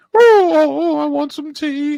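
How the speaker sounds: very high, loud, slow, belted declaiming. Doing a Judi Dench impression when asked: Judi Dench impression. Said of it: "Do your Judi Dench".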